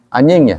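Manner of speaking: "anjing" said as "anying"; NY instead of J. Shown as a demonstration. Teacher checking the Bandung word, "anjing" pronounced "anying". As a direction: soften the J of "anjing" to NY. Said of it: "jadi N Y".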